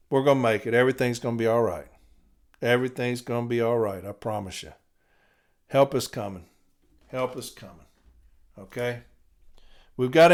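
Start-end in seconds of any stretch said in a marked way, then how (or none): 0.1-9.0 low, soft words of comfort; reassuring. Real, not acted. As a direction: soothe them gently, voice dropping low. Reassuring listeners that help comes.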